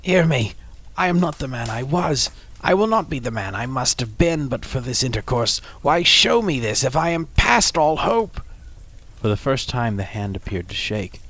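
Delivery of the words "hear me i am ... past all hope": high, loud begging; desperate pleading. Acted. Scrooge begs the spirit for hope, high and loud.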